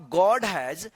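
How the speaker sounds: whole sentence read very slowly word by word; slow model reading. Shown as a demonstration. Teacher reading the full sentence slowly to students. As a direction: spell it out slowly for beginners. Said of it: "तो क्या होगा".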